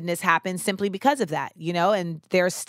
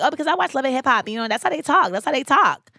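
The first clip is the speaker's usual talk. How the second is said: higher-pitched mock American accent; imitated American accent; 6 semitones higher than usual. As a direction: lightly mimic a put-on American accent. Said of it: "speak in her American accent".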